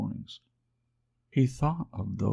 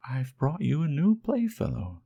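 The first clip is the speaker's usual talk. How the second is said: high, louder, announcing; bright fairy voice; 10 semitones higher, 5 dB louder than usual. Acted. Fairy announcing the new rabbit to the wild rabbits, bright and high. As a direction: present the newcomer gladly.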